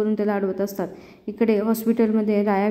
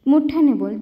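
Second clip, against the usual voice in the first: higher and louder mocking order; taunting command; 5 semitones higher, 4 dB louder than usual. Jay taunting Raya to say it louder, loud mock order. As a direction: bark it down at him to humiliate.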